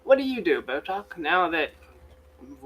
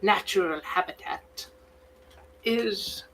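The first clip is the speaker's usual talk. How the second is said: David Attenborough; 6 semitones higher than usual. Acted. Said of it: "supposed to sound like David Attenborough".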